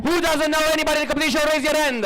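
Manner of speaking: fast and insistent. Real, not acted. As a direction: urge the crowd to put hands up. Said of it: "We're gonna keep asking".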